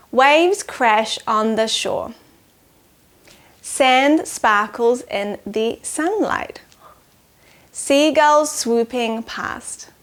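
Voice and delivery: slow, measured haiku reading; poem reading. Acted. Teacher reading a haiku to children, slow and measured. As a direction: count each syllable as you read.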